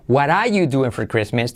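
"What are you doing for Christmas" starting "wara you"; second option. Shown as a demonstration. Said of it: "Segunda opción". («What are you doing for Christmas» sin R en «are»)

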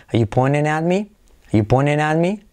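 "pointing" as "poinen" in a rising question; T skipped. Shown as a demonstration. Teacher modelling the shortcut, "pointing" without its T. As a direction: ask it with no T in "pointing". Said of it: "te puedes saltar la T".

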